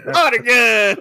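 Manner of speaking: high, loud Texas twang; mock Texan battle cry; exaggerated Texas accent. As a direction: shout it like a hammed-up Texan. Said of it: "when did Red get a Texas accent".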